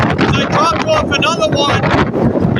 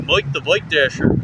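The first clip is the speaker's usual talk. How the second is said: lower, badly faked Irish accent; 8 semitones lower, 3 dB quieter than usual. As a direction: redo the hammy Irish accent for laughs. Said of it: "I was doing that bad accent".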